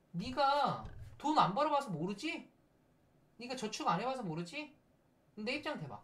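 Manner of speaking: lightly acted scolding parent; mock parent ego. Parent scolding child about money, mildly hammed-up reproach. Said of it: "부모자예요".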